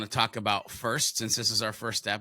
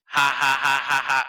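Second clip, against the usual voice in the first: robot voice; 8 dB louder than usual. Shown as a demonstration. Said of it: "a robot voice".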